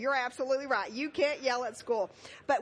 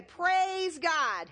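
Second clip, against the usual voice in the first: louder call of praise; 3 semitones higher, 5 dB louder than usual. Shown as a demonstration. Children's pastor showing the kids a loud praise. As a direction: say it out strong. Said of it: "get really loud".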